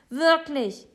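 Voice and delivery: high, loud insistence; shouting. A narrator's reading. Boy begging Papa to believe him, shouting high. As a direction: cry it out to be believed. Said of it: "schreit Jonathan".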